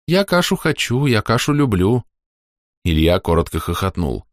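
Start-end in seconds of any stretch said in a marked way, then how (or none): 0.1-2.0 put-on playful young soldier.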